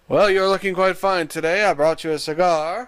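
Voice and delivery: lightly voiced mannered gentleman. Host offering co-host a cigar, mock gentleman. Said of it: "like a gentleman".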